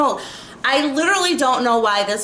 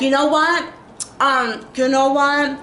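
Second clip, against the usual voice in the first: a hammed-up scolding, pitched up; bossy mock quote; 6 semitones higher than usual. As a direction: mimic her telling you off. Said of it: "she's talking just like this".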